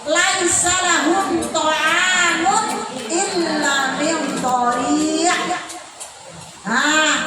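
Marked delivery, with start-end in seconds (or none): 0.1-5.3 slow, drawn-out verse recitation; measured Qur'anic recital. Real, not acted. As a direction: recite the Arabic with long held vowels.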